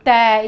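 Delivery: "तै" said loud and clear as "tai"; clear teaching demo. Shown as a demonstration. Teacher models the syllable for kids, loud clear demo. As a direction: sound out "तै" for the class, open and full. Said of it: "बोलिए मेरे साथ".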